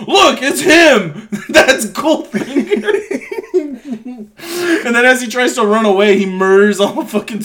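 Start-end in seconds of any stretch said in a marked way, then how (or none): 0.1-3.2 high, slow, drawn-out comic accusation; hammed-up cry, dissolving into laughter; mock alarmed shout. Villain in disguise pointing out Goldfinger to everybody, mock shout. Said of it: "then he goes".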